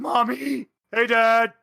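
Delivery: high, gleeful greeting; bright-eyed, high-pitched hello; excited Samael. Acted. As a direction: call out to parents like a delighted kid. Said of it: "Samael goes".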